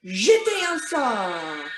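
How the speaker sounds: slow, drawn-out French incantation; casting a spell. Pretend. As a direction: cast the spell, stretching out "sort". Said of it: "cast a spell".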